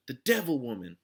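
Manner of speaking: brand her a devil to the crowd; shouted. A narrator's reading. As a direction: ringleader yelling to the mob. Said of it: "Trout shouted".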